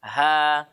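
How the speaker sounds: HA breathed from the base of the throat; clean, airy HA; thin ha. Shown as a demonstration. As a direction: hold a light, open "Ha".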